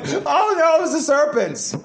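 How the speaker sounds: a mock-innocent cry of "not me"; Eve blaming. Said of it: "Then you have the woman".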